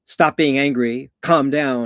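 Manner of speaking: emphatic, spaced-out command; firm command. Acted. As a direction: order an angry person to settle. Acts telling angry person off.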